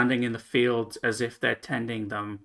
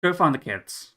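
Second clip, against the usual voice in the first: barkeep calling out; 3 semitones higher, 5 dB louder than usual. Acted. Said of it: "And she goes".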